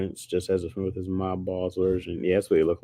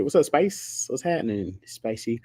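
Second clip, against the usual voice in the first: lightly put-on, higher bantering voice; acted chummy banter; 3 semitones higher than usual. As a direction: play a chatty character offering flavors. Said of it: "He just gonna say".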